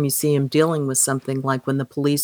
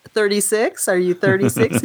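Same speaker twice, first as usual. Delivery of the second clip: higher-pitched incredulous question; mock disbelief; 3 semitones higher than usual. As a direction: imitate a suitor double-checking in surprise. Acts his reaction to her measurement.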